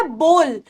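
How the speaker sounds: बोल with a long "oh", falling; correct pronunciation. Shown as a demonstration. Teacher answering what the word becomes, long "oh" in बोल. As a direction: round the vowel of बोल to "oh". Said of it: "तो word क्या बन जाता है".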